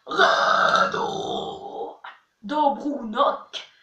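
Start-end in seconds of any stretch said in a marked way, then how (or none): 0.1-2.0 a single burped word. Shown as a demonstration. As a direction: say "Sestra" on a burp. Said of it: "en rotant".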